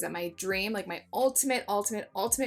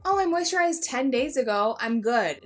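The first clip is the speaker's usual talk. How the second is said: higher, louder mock excuse; exaggerated careless-viewer voice; dismissive viewer; 4 semitones higher, 5 dB louder than usual. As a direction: imitate someone brushing off skincare. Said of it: "you can't just say".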